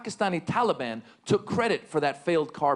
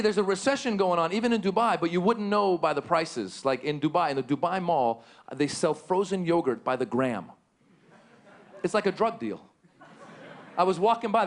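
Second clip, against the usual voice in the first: ordinary delivery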